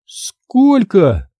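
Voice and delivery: испуганное женское «сколько», выше; зачарованно, с опаской; заворожённо. Acted. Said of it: "Заворожённо глядя на нож". (женщина заворожённо спрашивает, глядя на нож)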